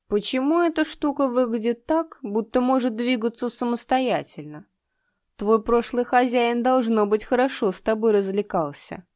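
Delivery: put-on high, loud drunken leering; swaying drunk, leering at a doll; drunk lecher. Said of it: "Слегка покачиваясь, он произнёс".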